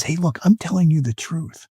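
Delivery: level with them, quietly and sincerely; utter sincerity. Shown as a demonstration. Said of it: "Utter sincerity says".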